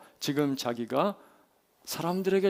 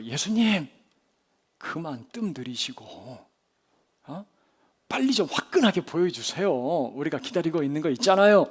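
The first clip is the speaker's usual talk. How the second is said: mildly impatient crowd member pleading; impatient urging. Acted. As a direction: press them to get on with it. Impatient crowd voiced to Jesus.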